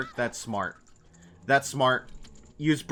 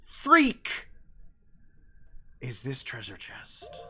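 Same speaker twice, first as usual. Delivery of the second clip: exasperated; 3 dB quieter, slower than usual. Acted. Exasperated search.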